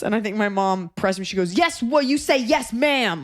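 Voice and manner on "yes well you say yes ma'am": high-pitched mock angry correction; imitating livid mom. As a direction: drill the manners in like a fed-up mother. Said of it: "Like she was livid".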